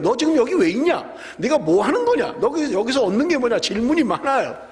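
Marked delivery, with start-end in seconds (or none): 0.0-3.6 higher-pitched, insistent mock questioning; acted interrogation. Scouts questioning the young Levite they found, acted interrogation. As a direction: fire off questions as if confronting someone.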